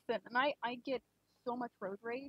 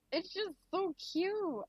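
delighted gushing; 6 semitones higher, slower than usual. Real, not acted. Gushing over cute art.

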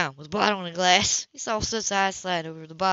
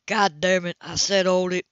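firmer, louder stop order; angry command across the yard; meaning it; 5 dB louder than usual. Acted. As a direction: hit said, make him stop. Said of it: "Cam put some meaning in it".

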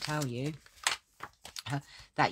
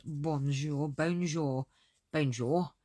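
mock French bonjour; slower than usual. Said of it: "That sounds a bit like, um, Trotter".

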